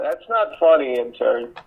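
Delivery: loud, mock-stern telling-off; mock scolding. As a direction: play the stern boss scolding the intern. Scolding the intern for a joke.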